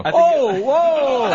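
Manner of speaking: high startled exclamation; surprised whoa. Real, not acted. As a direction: caught off guard, loud. Shocked reaction to virginity news.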